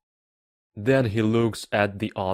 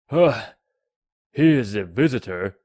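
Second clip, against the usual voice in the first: lightly voiced king, louder; proud king; 6 dB louder than usual. A narrator's reading. King greets a visitor, louder.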